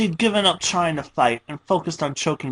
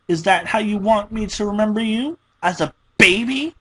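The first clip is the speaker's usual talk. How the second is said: high, loud, wounded scolding; guilt-trip her, voice rising; hurt, angry rant; 6 semitones higher, 3 dB louder than usual. Acted. Pinkie berates Dash for being inconsiderate, high and loud.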